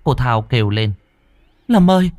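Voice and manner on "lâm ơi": high, urgent pleading near sobs; sobbing plea. A narrator's reading. Mother pleading with her ghost son, high and sobbing. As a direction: pour out the questions fast, voice breaking high. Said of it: "Cô Thao khóc nấc lên".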